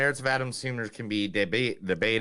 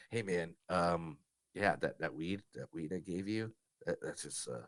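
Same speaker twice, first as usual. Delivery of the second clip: stoner voice; 4 semitones lower, 6 dB quieter than usual. Retold or imitated. Acted stoner quote.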